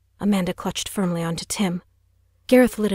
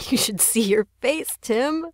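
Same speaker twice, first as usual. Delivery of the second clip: teasing; 5 semitones higher than usual. Acted. Teasing after the prank.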